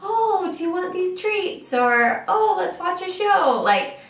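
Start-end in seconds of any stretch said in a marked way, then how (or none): 0.0-1.7 put-on high, sing-song voice for a toddler; cheery toddler talk. Mom coaxing her crying toddler on the plane, high and sing-song. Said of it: "So I'll say, like". 2.3-3.6 put-on high, sing-song voice for a toddler; cheery toddler talk. Mom coaxing her crying toddler on the plane, high and sing-song. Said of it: "So I'll say, like".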